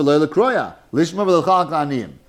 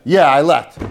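louder, keen "Yeah, I let" meaning a real yes; eager yes; 6 dB louder than usual. Shown as a demonstration. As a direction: say "Yeah, I let" as if truly agreeing. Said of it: "on the tone of voice that you say it".

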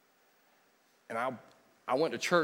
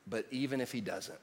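soft reverent quote; 3 semitones lower, 8 dB quieter than usual. Shown as a demonstration. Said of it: "These five words".

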